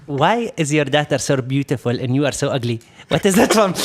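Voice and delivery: a put-on Arab accent, laughing into the end; playful Arab accent for a cheeky joke; imitated Arab accent. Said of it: "I'm gonna try to talk to his accent".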